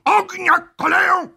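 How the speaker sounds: high-pitched firing command; officer's cry, pitched far up; shouted order. A narrator's reading. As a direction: call out orders to a firing line. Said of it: "krzyknął".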